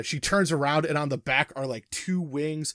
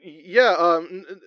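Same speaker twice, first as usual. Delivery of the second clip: stammering host, somewhat raised voice; comic host with halting patter; comedy talk-show wrestler; 3 semitones higher, 5 dB louder than usual. Acted. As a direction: bumble through a welcome to the guest.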